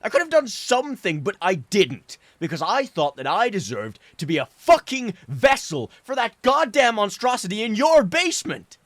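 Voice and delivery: tears pouring out through the yelling; sobbing outburst. Acted. Son screaming his guilt at his father, sobbing. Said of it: "sobbing the little of what remained".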